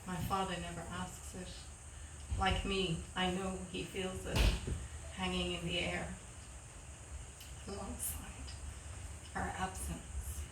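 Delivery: understated poem reading, long pauses between phrases; poetry reading. Acted. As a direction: let each line of the poem settle. Reads own poem aloud.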